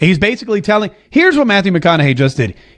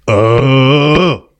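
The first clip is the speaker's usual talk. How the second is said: McConaughey "all right" impression; 2 semitones lower, much slower than usual.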